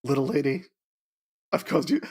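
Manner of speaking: put-on lightly done cowboy accent. Horse apologizing to his little lady, light cowboy accent. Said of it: "say it in a cowboy accent".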